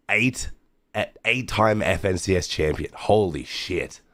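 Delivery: slow, stunned disbelief; drawn out in amazement; awed. Real, not acted. Awed at champion result again.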